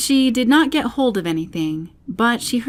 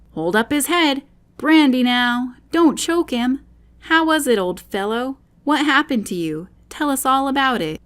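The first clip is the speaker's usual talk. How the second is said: higher, hurried fussing voices; excited crowd; 6 semitones higher, 4 dB louder than usual. A narrator's reading. Voices fussing over the fallen Bill, excited. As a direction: fuss over him all at once. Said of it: "another confusion of voices".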